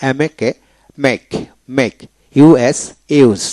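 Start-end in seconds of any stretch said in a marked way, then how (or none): 3.2-3.4 "ইউজ" ending on the consonant; silent E. Shown as a demonstration. Teacher showing learners a silent letter, "ইউজ" without final E. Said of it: "ই উচ্চারিত হবে না".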